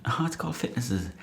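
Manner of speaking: mock the page name; an imagined sceptic jeering at the page name.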